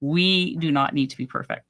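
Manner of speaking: tired, failing voice from talking; losing voice. Real, not acted. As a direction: voice giving out. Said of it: "I'm losing my voice".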